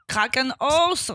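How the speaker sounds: slow, mock German accent; bad German accent. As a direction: put on a clumsy German accent. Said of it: "j'ai fait un accent merde allemand".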